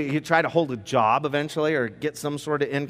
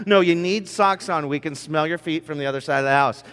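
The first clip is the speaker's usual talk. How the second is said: dad scolding. Acted. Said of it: "sounds maybe a little bit like this".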